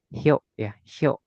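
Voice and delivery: "hyo" as one syllable, the i lost; crashed-together reading. Shown as a demonstration. Teacher reads small yo, crashed-together syllable. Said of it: "ditabrak gitu loh".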